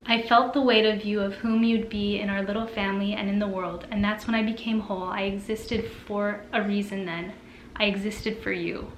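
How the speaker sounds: tender read-aloud of a mother's words; emotional reading aloud. Acted. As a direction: read it gently, letting it move you. Reads a moving quote aloud.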